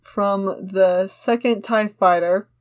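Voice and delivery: measured, slightly slow action-line reading; script narration read-aloud. Acted. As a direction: read the scene description steadily to the friend. Reads script action lines.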